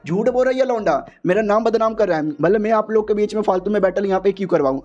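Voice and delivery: lightly acted outraged denial; indignant protest. Accused man denies staging the battle, indignant.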